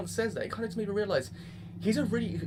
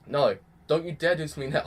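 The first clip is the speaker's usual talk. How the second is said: mock protest; 5 dB louder than usual. Viewer to the show before tears come, mock protest. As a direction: firmly plead not to be made emotional.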